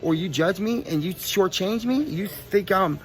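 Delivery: worked-up street bravado; indignant challenge. Real, not acted. Warns anyone who tries or judges him.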